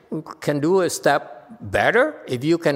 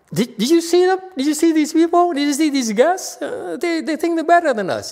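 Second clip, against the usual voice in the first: much higher, nosy gossip voice ending in a laugh; mock gossiping disciples; 11 semitones higher, 3 dB louder than usual. Master imitating disciples, mock gossip about resting guests. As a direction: play the catty students grumbling about the guests. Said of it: "all of you say".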